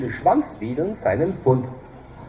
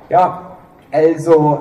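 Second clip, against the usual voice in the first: hesitant drawl; 2 semitones higher, 7 dB louder, much slower than usual. Acted. Character hesitates, drawn out.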